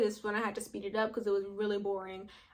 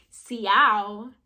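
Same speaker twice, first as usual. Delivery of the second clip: confused question; 8 dB louder, much slower than usual. Retold or imitated. Confused reply to text.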